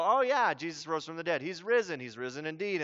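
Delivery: offhand, shrugging church-response tone; casual rote recital; glib. Shown as a demonstration. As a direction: toss it off like it's old news. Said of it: "react glibly to it".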